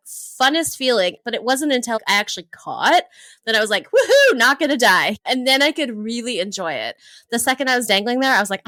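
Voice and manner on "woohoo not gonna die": excited relief. Retold or imitated. Relief after the bungee catch.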